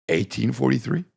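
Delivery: high, rising disbelief; incredulous question. Acted. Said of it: "And you go".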